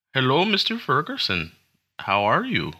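put-on second go at a caller's Central Asian accent, starting high. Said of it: "That was a really bad it".

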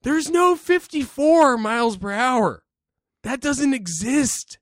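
high, loud, drawn-out protest; mock outraged shout. Nitpicking a rap lyric to a friend, mock-outraged shouting. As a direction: shout it slowly in comic disbelief.

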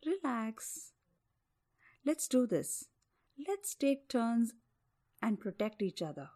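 calm him gently as a bear. Acted. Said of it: "calming words of the bear".

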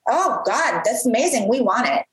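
excited. Retold or imitated. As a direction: imitate an eager yes, pitch lifted. Retold eager reply from digital head.

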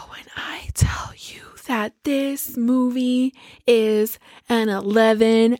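slow, hushed build-up; emphatic whisper. Real, not acted. Praising the movie to her co-host, in a slow whisper. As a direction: whisper it like a secret before the big reveal.

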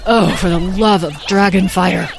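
exasperated motherly grumble, not hushed; exasperated mutter. A narrator's reading. Beatrice reacts to her children plunging away, exasperated mutter. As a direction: grumble to oneself in dismay. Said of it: "muttered under her breath".

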